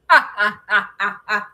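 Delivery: Ursula style evil cackle; villain cackle. Pretend. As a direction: try a sea-witch villain laugh. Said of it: "like, a Ursula kinda laugh".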